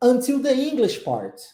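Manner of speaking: intonation drops on the word "part". English lesson repeating a sentence: falling pitch at the end. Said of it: "Olha como é que desce no finalzinho".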